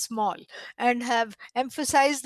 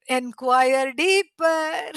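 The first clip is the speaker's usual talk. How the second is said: very slow, drawn-out instruction; father sending the pupil back, slowly; squashing correction; 3 dB louder, much slower than usual. Acted. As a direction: stretch each word out as a teasing command. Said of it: "squashed his understanding and said".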